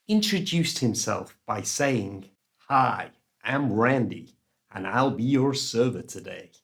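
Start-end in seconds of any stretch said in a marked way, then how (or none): 2.7-6.5 lightly imitating an American waiter's welcome; American accent. Waiter Randy greets diner, mild American accent. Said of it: "apologies for the American accent".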